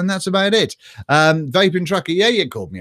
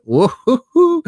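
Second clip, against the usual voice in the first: whooping cheer; 9 semitones higher, 5 dB louder, slower than usual. Real, not acted. Cheering after a joke.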